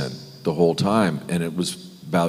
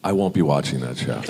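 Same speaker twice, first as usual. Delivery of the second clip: lower-pitched, deadpan verdict after a pause; disapproving mother; 5 semitones lower than usual. Retold or imitated. Actor voicing his mother's reply about the violent show, deadpan disapproval. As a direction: deliver a mother's firm refusal. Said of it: "and my mother went".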